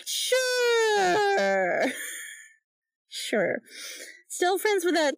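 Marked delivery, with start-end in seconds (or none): 0.0-1.8 grudging sure. Acted. Dula's grudging answer. 3.1-3.6 muttered sure. Acted. Dula's grudging answer.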